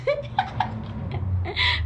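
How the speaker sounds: breathy high-pitched giggle; high airy laugh. Real, not acted. Streamer laughing at a viewer's comment with a high laugh. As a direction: burst into squeaky laughter.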